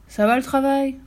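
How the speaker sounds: high, mildly shouted question; farmer's call. A narrator's reading.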